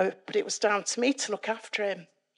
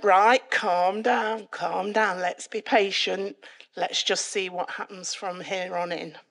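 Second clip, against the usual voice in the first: steadying, measured reassurance; retold calming down. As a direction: settle an overexcited friend down. Tony calming her down.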